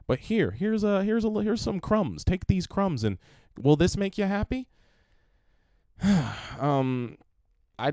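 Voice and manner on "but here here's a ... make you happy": high sarcastic offering voice; mocking sarcasm. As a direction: dangle the crumbs mockingly. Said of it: "But I was like".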